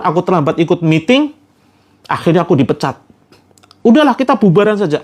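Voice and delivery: blaming his wife for everything, shouting; furious husband. Retold or imitated. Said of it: "Dibentak-bentak". (suami membentak istri setelah dipecat)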